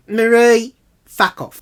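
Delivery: loud, high telling-off; acted-out furious retort; angry dismissal. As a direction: send her packing forcefully. Acted swearing in a quarrel.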